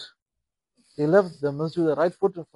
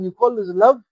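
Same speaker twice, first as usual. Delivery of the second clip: reproachful; 3 semitones higher, 5 dB louder than usual. Acted. Prophet rebuking in a dream.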